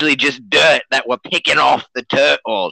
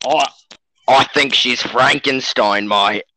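mock Australian accent; 3 semitones lower than usual. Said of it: "he's Australian, if you can't tell".

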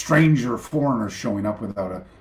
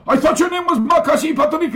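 much higher, louder, bewildered; genuinely confused; puzzled sensei; 7 dB louder than usual. Retold or imitated. The sensei, confused, asks about his name. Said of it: "He goes".

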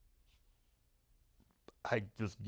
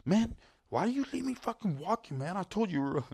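high-pitched, loud phone rant; imitated griping; 11 semitones higher, 5 dB louder than usual. Friend complaining he was left walking, high loud mock griping. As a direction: whine and gripe as the wronged friend. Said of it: "He's griping me out".

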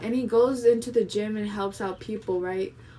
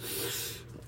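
a soft, breathy push of air like straining at a rep; effort exhale; 13 dB quieter than usual. Shown as a demonstration. Showing friends the noise she makes mid-rep, a strained exhale. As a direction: breathe out hard as if pushing through a lift. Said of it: "I close my eyes and I go like".

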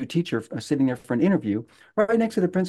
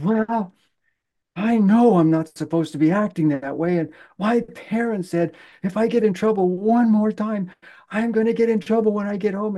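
put-on high, pleading child voice; upset little boy; 8 semitones higher than usual. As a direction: speak as the scared kid in trouble. Voicing upset kid in story.

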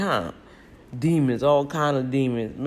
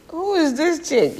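mock side-eye; 14 semitones higher, 4 dB louder, slower than usual. Onlookers judging her in store.

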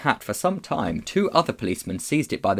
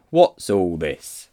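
very slow, ponderous official demand; policeman; 3 semitones lower, 5 dB louder, much slower than usual. A narrator's reading. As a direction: question a suspect loudly and slowly. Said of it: "said the policeman".

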